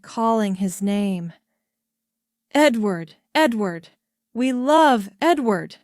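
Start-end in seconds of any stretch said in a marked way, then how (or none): 2.5-5.8 loud crowd chant; shouted. A narrator's reading. Crowd below the window chanting for the king. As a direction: call his name from the street. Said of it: "they shouted".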